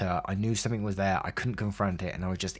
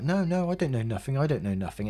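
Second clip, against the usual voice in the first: lightly voiced oblivious dad, pitched up; innocent dad; 6 semitones higher than usual. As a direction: imitate dad pleading ignorance. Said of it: "he was totally innocent".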